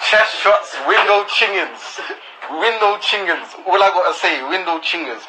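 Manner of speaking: high, slow mocking tone. Mocking the rival's claims.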